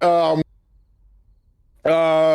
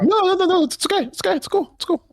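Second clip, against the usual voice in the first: nervous backpedal; 12 semitones higher than usual. Acted. Backing down to threatening dad.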